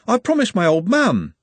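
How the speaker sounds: high, loud protesting lad; Trev. A narrator's reading. Trev explains why he cannot play, high protest.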